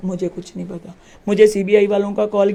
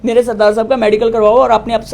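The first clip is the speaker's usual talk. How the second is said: the same demand again, louder and firmer; repeating her demand louder to the SHO; insistent repeat; 5 dB louder than usual. Retold or imitated. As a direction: hammer the demand home a second time.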